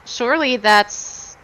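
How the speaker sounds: lightly voiced smooth talker; coaxing bartender pitch. A hint of a character sweet-talking the bar owner. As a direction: coax the old man gently.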